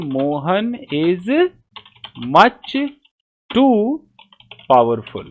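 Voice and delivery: each word spaced out slowly. Shown as a demonstration. Teacher spacing out the correct sentence for students. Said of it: "क्या कहना चाहिए".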